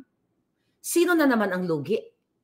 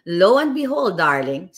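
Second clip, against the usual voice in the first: mock dramatic; 4 dB louder than usual. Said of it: "sabi ko nang ganun".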